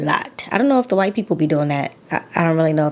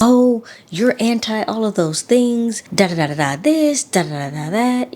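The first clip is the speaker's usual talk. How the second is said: imagined commenter's objection; 4 semitones higher than usual. Acted. Vlogger imitating possible comments from viewers, mock objection. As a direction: lightly mimic a critic, trailing into dismissive filler. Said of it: "the possible comments".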